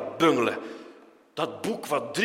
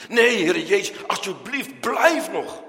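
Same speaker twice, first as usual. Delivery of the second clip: pleading; 5 semitones higher, 6 dB louder, slower than usual. Acted. Disciples begging Jesus to stay.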